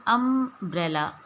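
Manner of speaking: अम्ब्रेला slowly, opening on a short uh vowel; slow umbrella. Shown as a demonstration. Teacher slowly models अम्ब्रेला for students. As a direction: draw out अम्ब्रेला from its first vowel. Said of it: "pronunciation कैसे लिखेंगे".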